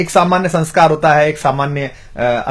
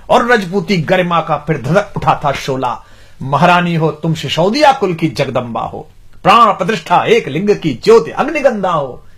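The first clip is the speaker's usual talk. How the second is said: rhythmic Hindi verse recital; poem recitation. Acted. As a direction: declaim it like a court poet.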